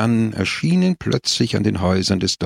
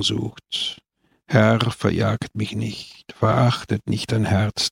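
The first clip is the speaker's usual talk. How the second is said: prayer. A narrator's reading. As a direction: pray with bowed humility. Gebet in der Beichte. (feierlich gebetet)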